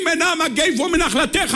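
high, drawn-out mock cry of supplication; imagined crying out in prayer. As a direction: cry the prayer slowly to the heavens. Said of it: "היינו צועקים עד שהשמיים היו נקרעים".

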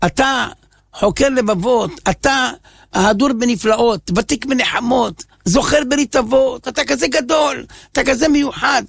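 pleading prayer building to a tearful cry; heartfelt prayer growing in fervor; fervent prayer. Acted.

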